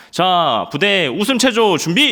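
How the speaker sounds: loud, high call of an army officer; mock drill sergeant calling formation; officer's command. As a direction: bark out the drill order.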